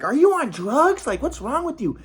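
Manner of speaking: high, drawn-out mock scolding; retold parental yelling. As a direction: imitate exasperated parents yelling, not full volume. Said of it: "were yelling".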